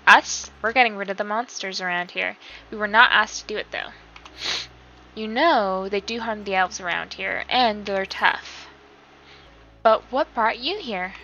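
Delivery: lightly voiced cheerful elf greeting a traveller; friendly elf companions. Player voicing elf companions welcoming an adventurer, lightly cheerful. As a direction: read it as a chirpy game companion. Voices game character dialogue.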